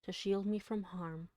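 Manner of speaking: measured, tender poetry recital; poem reading. Acted. Streamer reading Poe to chat, hushed poetic recital.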